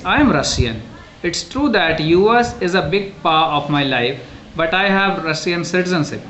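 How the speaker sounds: slow, deliberate read-aloud; textbook reading. Acted. Teacher reading about Maria Sharapova to the class, textbook reading.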